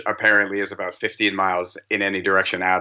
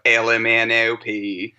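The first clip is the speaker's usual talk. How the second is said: slow, drawn-out imitated Southern accent; 3 semitones higher, slower than usual. Parent imitating daughter saying her letters, Southern accent. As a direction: stretch it like a Southern child. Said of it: "developing a Southern accent".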